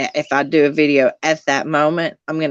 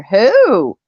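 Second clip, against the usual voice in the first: surprised; 7 semitones higher, 7 dB louder than usual. Real, not acted. Shocked reaction to the news.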